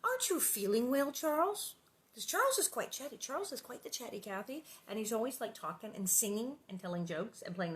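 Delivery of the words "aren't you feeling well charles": concerned Ma. A narrator's reading. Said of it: "Ma asked".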